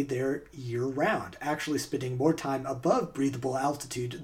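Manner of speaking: measured scripted documentary read; story narration. Acted. Host reads a true-or-false story to players, narration.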